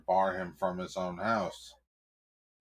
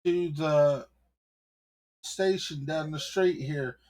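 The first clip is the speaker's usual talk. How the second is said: squeaky, much higher and louder; a scared cop's voice cracking up high; cowering cop; 8 semitones higher, 5 dB louder than usual. Acted. Cop answering the angry mayor, squeaking in fear.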